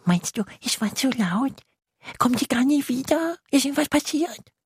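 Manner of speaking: high, worried questions; a tiny voice growing nervous; uneasy little monster. Acted. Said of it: "wird es unruhig".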